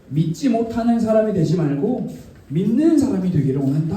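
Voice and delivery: measured invitation with long pauses; gentle, not scolding. Acted. Jesus inviting Thomas to touch him, gently. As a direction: offer proof patiently, no reproach. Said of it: "뭐라고 하시는 게 아니라".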